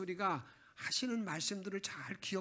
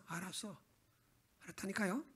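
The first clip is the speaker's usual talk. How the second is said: put-on sulky child; 6 dB quieter than usual. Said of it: "시큰둥해 말하면서".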